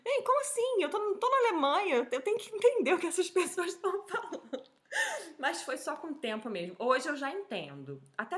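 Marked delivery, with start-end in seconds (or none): 0.0-4.6 loud, high-pitched indignant disbelief; exasperated mock outburst. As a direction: exclaim it like a baffled foreigner, laughter creeping in. Acts out her exasperated inner protest.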